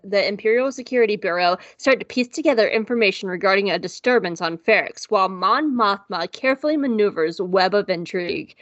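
measured podcast synopsis read; episode summary read. Real, not acted. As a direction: read out the synopsis like a host's intro.

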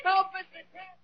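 high, desperate cry for help; boy trapped in a flooding room yells for Mister Kent; calling for help. Acted. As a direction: shout for rescue as water rises.

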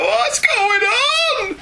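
high, slow, confused caveman voice; bewildered caveman. Retold or imitated. Host voices the caveman lost in the future, high and bewildered. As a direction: drag it out like a baffled caveman. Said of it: "and he's like".

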